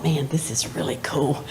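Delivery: a quiet, awed aside; whispered thought. Retold or imitated. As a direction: whisper it to yourself in awe. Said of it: "and I thought".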